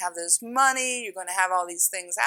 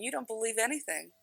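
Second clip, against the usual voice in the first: taunting dark beings; 6 dB quieter than usual. Retold or imitated. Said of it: "they're laughing at me saying".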